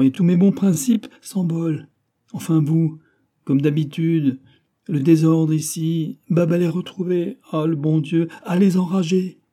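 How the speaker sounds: high and loud, flustered scolding; a teacher at the end of his rope; losing his head. A narrator's reading. Old teacher loses his head over the rowdy pupils, loud and high. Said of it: "fit perdre la tête au vieux pédagogue".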